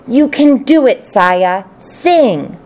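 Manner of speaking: lightly high squeaky encouragement; a little squeaking voice urging her on; squeaky hamster cheer. Acted. Hamster cheering for Saya, squeaky and eager. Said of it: "I squeaked out as loudly as I could".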